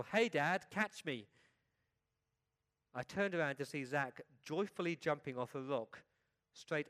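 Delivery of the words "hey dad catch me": put-on boy calling out loudly to his dad; louder, higher, a playful holler; excited yell. A narrator's reading. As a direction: yell it down from above. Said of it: "I heard a voice from above me yell".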